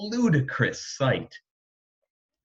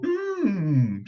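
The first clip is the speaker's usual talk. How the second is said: a sweet, savoring mmm; sweetly; 6 semitones higher than usual. A narrator's reading. Queen tasting the medicine, sweetly. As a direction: hum it sweetly like a treat. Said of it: "she said sweetly".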